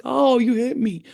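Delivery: slow, high, wounded whine; alien, hurt not mean. Retold or imitated. Punched giant alien complaining to the elf, slow hurt voice. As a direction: complain without menace, mock-hurt. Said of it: "not mean".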